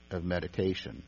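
usual speaking voice

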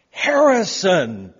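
calling a name out loud, drawn out slowly; loud yell. Retold or imitated. Stranger searching for his son yells the name out loud. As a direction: bellow the name across the restroom. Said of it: "yelling at the top of their lungs".

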